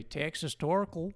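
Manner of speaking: Texas Torkel drawn out in an American accent; overpronounced American Texas Torkel. Shown as a demonstration. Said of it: "overpronouncing words".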